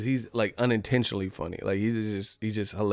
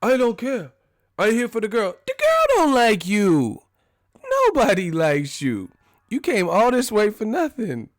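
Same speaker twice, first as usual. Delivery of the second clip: much higher, louder Tucker rant; Chris Tucker impression; 11 semitones higher, 4 dB louder than usual. Chris Tucker telling Jackie nobody wants him, high-pitched and loud. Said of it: "Chris Tucker was like".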